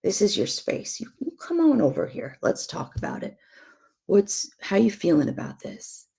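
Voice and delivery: gentle, hushed invitation to a spouse; tender, hushed welcome; soft inviting voice. Pretend. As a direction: softly coax him to come and talk. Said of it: "hold that to your spouse and say".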